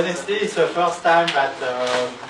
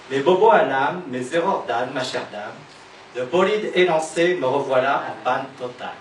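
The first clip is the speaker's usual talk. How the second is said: measured verse, each line falling away at its end; poem recitation. Acted. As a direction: recite a lost-love poem in paced phrases. Recites own slam poem.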